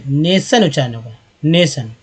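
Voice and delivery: नेशन with a long "ay" vowel; correct pronunciation. Shown as a demonstration. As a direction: land firmly on नेशन, "nay-shun". (नेशन, लंबे ए से)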